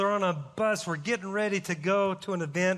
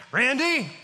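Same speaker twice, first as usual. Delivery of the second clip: retold yell; 5 semitones higher, 4 dB louder than usual. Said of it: "this guy's yelling on the bus".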